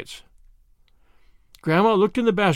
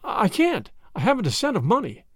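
wailing; 5 semitones higher than usual. Acted. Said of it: "wailed Grandma".

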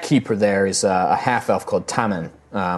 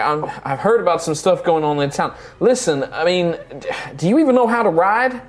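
put-on wary young stablehand; 7 semitones higher than usual. Stablehand questions the party.

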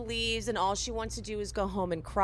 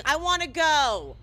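mock shout; 5 semitones higher, 4 dB louder than usual. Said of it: "shouting things from the hallway".

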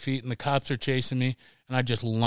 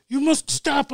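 mock cop order; 12 semitones higher than usual. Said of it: "They're like".

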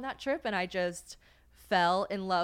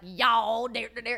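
put-on drawn-out "y'all" in a parodied American accent; mock American accent; 4 semitones higher, 7 dB louder, slower than usual. Locals making fun of the visitors' speech, mock accent. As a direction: mimic their mockery of American talk. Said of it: "then they would be like".

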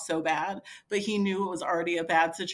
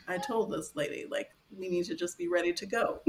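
retold in a slightly lowered, restrained voice; forced calm; 4 dB quieter than usual. Husband trying to remain calm, retold forced calm. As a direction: imitate someone keeping a lid on it. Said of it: "was trying to remain calm".

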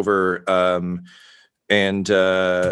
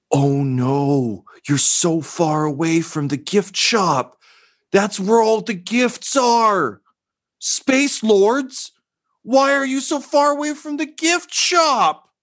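a much higher, slow, strained peasant voice; alarmed peasant; 12 semitones higher, slower than usual. Acted. Peasant reacting to the Space Lords, high-pitched and dismayed. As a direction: wail it out like a horrified little peasant. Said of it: "and just says".

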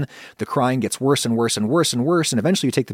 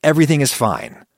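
higher, louder impatient dismissal; irritated coworker; 4 semitones higher, 3 dB louder than usual. Retold or imitated. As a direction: brush off a complaining colleague with annoyance. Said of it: "we get mad at them".

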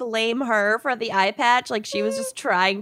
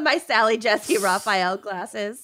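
slow; 2 semitones lower, slower than usual. Real, not acted. Slow punchline.

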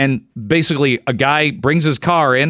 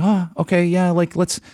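higher, hesitant stammering car owner; acted awkward customer, pitched up and faltering; sheepish put-on voice; 5 semitones higher than usual. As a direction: stammer out a feeble excuse in a high put-on voice. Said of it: "I don't know why I'd use that voice".

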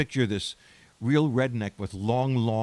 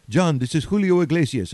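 louder, higher imitation of a Spanish accent; a famous singer; 4 semitones higher, 4 dB louder than usual. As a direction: put on a Spanish accent for a phone introduction. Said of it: "Tony, your accent stinks".

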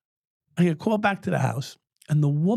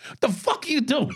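incredulous yell; 10 semitones higher than usual. Retold or imitated. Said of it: "I said".

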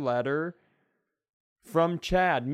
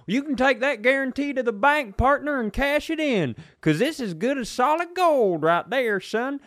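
high, loud pitchman boast; mock salesman, pitched up and loud; hammed-up huckster; 8 semitones higher, 5 dB louder than usual. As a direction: sell it big, like a cocky huckster.

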